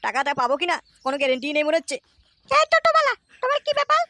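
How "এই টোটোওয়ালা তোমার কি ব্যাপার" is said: high, put-on old man's voice; a miserly old man calling out to the driver; stingy old man voice. Old man calls out to the toto driver in a raised voice.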